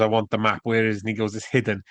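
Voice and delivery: low, lightly voiced villain; a hint of a menacing old man; gruff villain. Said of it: "turns around and goes".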